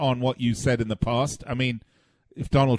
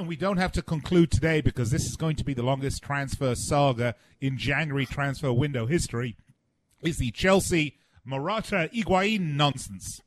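throat catching on a swallow; talking through a choke; choking on a drink; 4 dB quieter than usual. Real, not acted. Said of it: "It sounds like you're having trouble".

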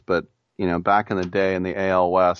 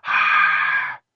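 crowd groan; 5 semitones higher than usual. Retold or imitated. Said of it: "the whole crowd would go".

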